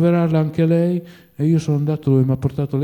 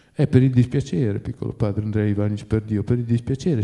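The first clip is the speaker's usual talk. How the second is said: bitter hiss; 6 semitones lower, 5 dB quieter than usual. A narrator's reading. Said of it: "sibilò Zahar facendo una smorfia amara".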